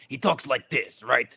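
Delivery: lightly put-on Russian accent; a hint of a bad Russian accent. Shown as a demonstration. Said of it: "I rap in a Russian accent".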